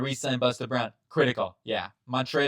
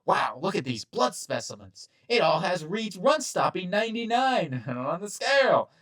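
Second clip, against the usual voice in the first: lab tech voice; 7 semitones higher than usual. Retold or imitated.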